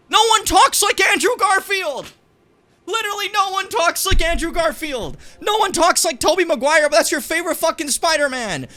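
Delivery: loud high furious ranting; furious shout. Real, not acted. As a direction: scream it in real outrage. Furious rant about Spider-Man critics.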